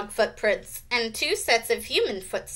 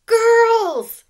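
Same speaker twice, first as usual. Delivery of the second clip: loud, high reprimanding cry; 12 semitones higher, 9 dB louder than usual. A narrator's reading. Counselor to unruly girls, crying out. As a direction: call the room to order loudly. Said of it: "cried the counselor".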